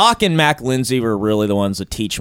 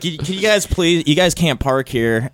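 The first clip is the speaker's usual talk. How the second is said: goofy clueless sitcom voice; 4 semitones higher than usual. Retold or imitated. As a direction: ask them meekly. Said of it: "how white you get when you're".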